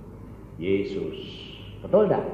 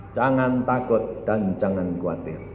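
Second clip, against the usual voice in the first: lowered voice after the proclamation; calm reassurance; 5 semitones lower than usual. Real, not acted. Preacher comforts congregation about fear, calm and low. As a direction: settle down and reassure them.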